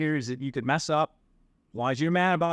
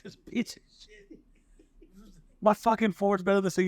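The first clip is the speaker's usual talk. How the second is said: mock scoff; 9 semitones higher than usual. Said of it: "He's like".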